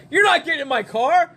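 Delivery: high mock refusal; flat no from the driver; hammed-up driver refusing; refusing friend.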